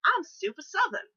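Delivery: loud, swooping Southern hello; big over-the-top Southern drawl, pitched high; super Southern accent. Shown as a demonstration. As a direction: burst into a hammed-up Southern accent. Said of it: "the next minute it goes to".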